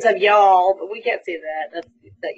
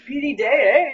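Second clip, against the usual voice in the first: Canadian eh. Retold or imitated. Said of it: "we're like".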